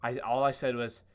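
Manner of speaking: normal talking voice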